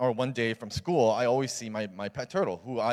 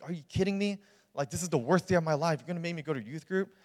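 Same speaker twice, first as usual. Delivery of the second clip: higher-pitched retold teenage complaint; indignant protest; 7 semitones higher than usual. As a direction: protest in mild disbelief, pitched up. Protesting being sent to church.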